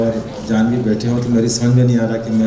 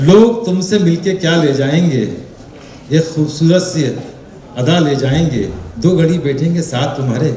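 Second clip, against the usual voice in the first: shayari recitation. Shown as a demonstration. Host repeats the verse on a guest's request, reciting shayari. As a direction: recite the couplet for everyone to hear. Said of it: "चलो शेर दोबारा बोलिए".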